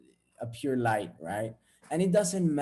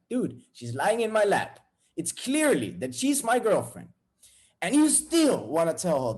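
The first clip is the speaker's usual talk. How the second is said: higher, emphatic mock rebuke; acted indignation; 3 semitones higher, 3 dB louder than usual. Boyfriend to guys admiring his girlfriend, indignant. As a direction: protest as if outraged.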